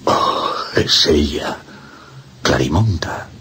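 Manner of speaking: slow, whispered, near crying; tearful recognition. Acted. Priest uncovering Clarimonda's face, tearful whisper. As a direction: breathe her name through tears.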